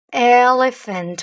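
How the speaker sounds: "Elephant" drawn out slowly, falling; slow model. Shown as a demonstration. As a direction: stretch out "Elephant" for the class. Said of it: "teacher models the word". ("Elephant" très lentement)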